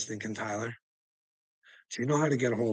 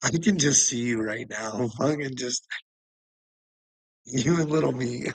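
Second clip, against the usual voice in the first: ordinary delivery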